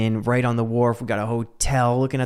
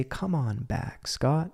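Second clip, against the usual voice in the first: much softer, slow call back to yourself; gentle self-coaxing; 8 dB quieter, slower than usual. Shown as a demonstration. Host softly talking himself back to the present. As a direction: coax your own mind home kindly. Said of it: "I say".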